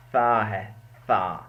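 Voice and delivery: "سا" said softly as a light Arabic s. Shown as a demonstration. Teacher shows students the soft letter, soft demo. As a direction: let "سا" come out soft and thin. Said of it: "یہ soft letter ہے سا".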